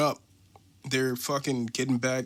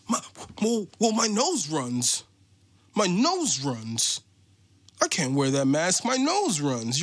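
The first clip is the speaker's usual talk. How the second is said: mock whiny customer; 3 semitones higher than usual. Mimicking customer's excuse.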